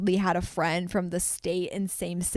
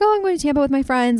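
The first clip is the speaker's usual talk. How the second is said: retold excitement, higher pitch; super excited; 6 semitones higher, faster than usual. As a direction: imitate yourself gushing about a trip. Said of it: "like, super excited".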